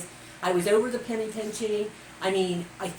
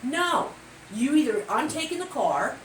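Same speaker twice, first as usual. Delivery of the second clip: high, rising indignant no; outraged disbelief; 5 semitones higher than usual. Real, not acted. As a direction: refuse in disbelief. Outraged refusal, pitch jumps.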